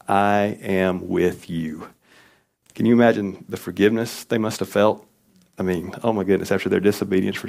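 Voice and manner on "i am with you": slow tender promise. Retold or imitated. God's words to exiles, very slow.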